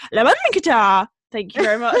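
loud rushed French phrase; mock sped-up app voice. Imitating Duolingo's sped-up audio, loud and rushed. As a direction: gabble it like a sped-up clip. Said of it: "then they speed up".

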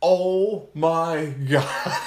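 stretched-out, slow, laughing oh my God; a slow, amused oh my God through laughter. Retold or imitated. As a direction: draw it out slowly, laughing. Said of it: "And she's like".

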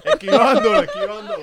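squeaky high voice. Pretend. Mimicking dodging the airplane.

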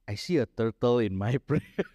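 breaking into a laugh mid-sentence; amused mock confession. Preacher imagining telling someone about the turtle vision, amused. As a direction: say it as absurd, laughing before the end. Mocks his own odd message.

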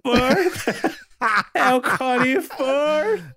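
slow, high mock English accent on Firth. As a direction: tease with an exaggerated English accent. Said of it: "respeitar a minha pronúncia de inglês".

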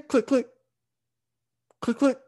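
high, crisp double click; imitated starter click. Truck failing to start on the driveway, imitated clicking. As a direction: mimic a dead starter clicking, high-pitched. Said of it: "You just hear a click".

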